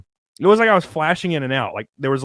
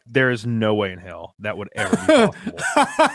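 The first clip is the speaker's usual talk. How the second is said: laughing refusal; 4 semitones lower than usual. Retold or imitated. Refusing sex while high.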